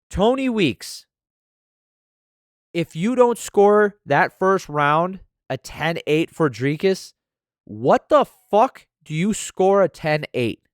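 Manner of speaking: loud, high, slow furious rant at the judge; angry rant. Real, not acted. Podcaster yelling at judge Tony Weeks, furious and slow. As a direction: drag each word out in outrage.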